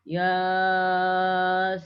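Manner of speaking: Yasin with every syllable stretched long; wrong Yasin. Shown as a demonstration. Teacher showing students a wrong reading, all long. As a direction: drag out both syllables of Yasin. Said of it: "Atau panjang semua".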